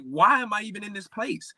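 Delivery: retold despair. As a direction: replay asking yourself in despair, without screaming. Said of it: "screaming and crying because I'm like".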